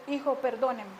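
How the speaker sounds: understated, quiet apology; retold tender apology. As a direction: gently ask a child's forgiveness. Mother kneels, apologizing to trembling son.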